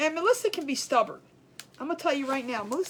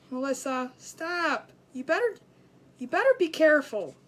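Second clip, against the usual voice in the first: louder, higher, wagging-finger warning; scolding warning; 4 semitones higher, 5 dB louder than usual. Retold or imitated. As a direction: scold her like a worried mother. Scolding friend over heart.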